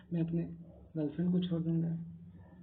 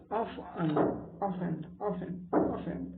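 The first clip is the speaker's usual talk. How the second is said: slow drilled repetition; much slower than usual. Shown as a demonstration. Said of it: "five times बोला".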